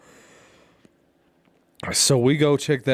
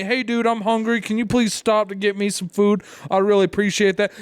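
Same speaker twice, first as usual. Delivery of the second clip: higher-pitched, imitated pleading courtesy; mock polite request; 6 semitones higher than usual. Friend imitating driver's example of asking for food, mock polite. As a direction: ask nicely with the pitch lifted.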